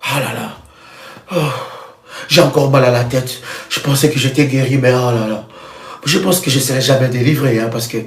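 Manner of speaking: low, soft, defeated moaning; miserable complaining believer. Pretend. Preacher mimics a believer sure he'll never be healed, low and soft. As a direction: sigh it out as the hopeless one. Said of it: "Si toi-même tu deviens ton propre sorcier".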